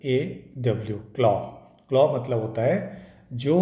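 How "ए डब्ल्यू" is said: slow spelling. Shown as a demonstration. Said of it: "इसका spelling देख लें".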